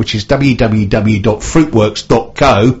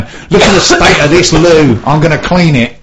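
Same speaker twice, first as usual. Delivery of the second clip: mock cleaning lady; 4 semitones higher, 3 dB louder than usual. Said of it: "she was going".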